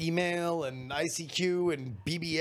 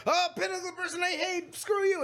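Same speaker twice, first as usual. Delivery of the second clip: sneering; 13 semitones higher than usual. Retold or imitated. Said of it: "And it's like".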